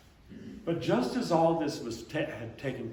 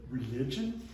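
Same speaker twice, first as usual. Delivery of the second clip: incredulous echo. Real, not acted. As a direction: toss back Religion? as if it makes no sense. Echoing her word in disbelief.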